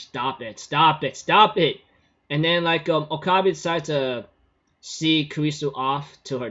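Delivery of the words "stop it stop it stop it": building protest. Real, not acted. Narrator's own thought, rising protest.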